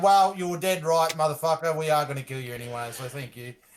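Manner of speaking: very nonchalant, casual, offhand, throwaway delivery. Voicing a character about to strike a captive: said very nonchalantly. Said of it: "very nonchalantly, I'm saying this".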